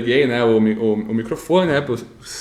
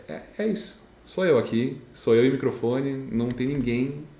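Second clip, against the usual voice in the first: hushed self-pep talk; 6 dB quieter than usual. Retold or imitated. Psyching himself up at the mic.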